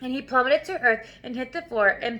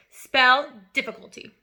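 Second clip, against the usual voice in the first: stern order; 5 dB louder than usual. Acted. Trunchbull barks order at pupil.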